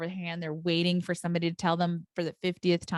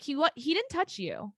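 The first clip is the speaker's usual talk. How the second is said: incredulous; 8 semitones higher than usual. Retold or imitated. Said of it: "And I'm like".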